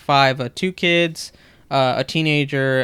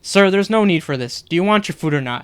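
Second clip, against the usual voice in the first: raised, higher voice, fed up with him; firm scolding; 3 semitones higher, 4 dB louder than usual. Retold or imitated. Server to rude customer who won't stop, a louder fed-up demand. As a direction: cut him off, loud and pointed.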